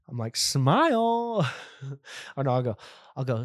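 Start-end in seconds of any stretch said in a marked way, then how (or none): 0.4-1.5 mock photographer. Posing guest for a Polaroid.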